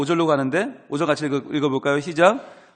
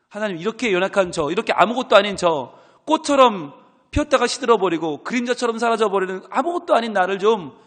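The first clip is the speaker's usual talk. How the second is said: louder, higher crying-out prayer; impassioned plea; 5 semitones higher, 6 dB louder than usual. Acted. Pastor voicing Job crying out to God, loud lament. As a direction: pour out the lament at full force. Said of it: "욥의 간절한 심경이 담긴 고백".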